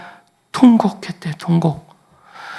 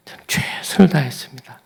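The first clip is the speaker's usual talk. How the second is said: soft breathy whisper; whispered prayer; 4 dB quieter than usual. Retold or imitated. Hezekiah whispering his plea to God. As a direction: confess it under the breath. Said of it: "이렇게 읽히던데요".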